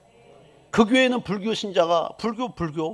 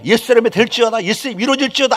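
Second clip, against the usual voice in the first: loud, higher declaration; faith proclamation; 5 semitones higher, 6 dB louder than usual. Shown as a demonstration. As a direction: proclaim it as done. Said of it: "믿음으로 선포해".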